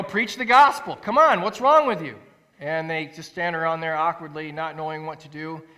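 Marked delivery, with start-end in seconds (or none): 0.0-2.2 loud, higher-pitched urging of hesitant students; exhorting. Retold or imitated. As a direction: imitate a pastor pushing them on. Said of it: "exhorts them more".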